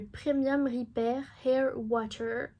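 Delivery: slow product name in French-accented English. Real, not acted. Vlogger reading out a hair product name, French-accented English. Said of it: "Mon accent anglais est génial".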